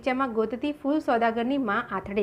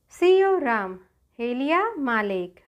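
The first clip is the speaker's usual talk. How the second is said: a raised chant of sailors hauling anchor; sailors' call. Acted. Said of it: "એવા અવાજ દઈ દઈને ખલાસીઓએ". (ખલાસીઓનો ઊંચો હાકલો)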